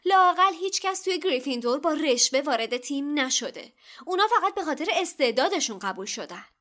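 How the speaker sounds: loud, high-pitched indignant retort; heated indignation. A narrator's reading. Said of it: "هرماینی با برافروختگی گفت". (با برافروختگی و صدای بلند)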